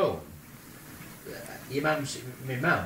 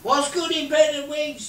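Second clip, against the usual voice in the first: shouting; 11 semitones higher, 9 dB louder than usual. Retold or imitated. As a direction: shout a joke across to someone flying past. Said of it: "and I shout".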